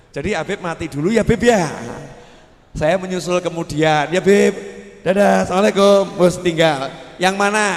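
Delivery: breezy, loud mock goodbye to the dying friend; mocking farewell. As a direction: wave him off cheerfully and loudly. Preacher voicing selfish friend leaving.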